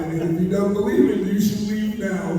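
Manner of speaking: raspy, lost voice; strained and hoarse throughout. Real, not acted. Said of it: "He lost his voice".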